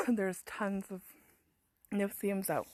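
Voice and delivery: coughing through the words; throat still irritated, talk past the cough; just swallowed a bug. Real, not acted. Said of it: "just swallowed a fly".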